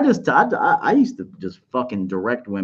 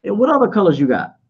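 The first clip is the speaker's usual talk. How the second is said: mock unimpressed reply; nonchalant act. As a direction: play it cool, barely impressed. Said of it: "just be like".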